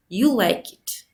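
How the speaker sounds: "You like it" with a low rise on "like" like a question. Shown as a demonstration. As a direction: say "You like it" with the pitch rising low at the end. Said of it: "Statements also used with the low rising tone when they're intended as questions".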